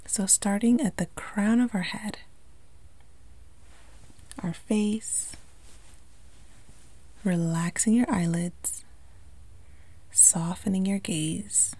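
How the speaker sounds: calm meditation delivery with long pauses; unhurried, lightly hushed guiding into relaxation; guided meditation. Acted. Yoga instructor guiding listeners to relax the body, calm meditation voice.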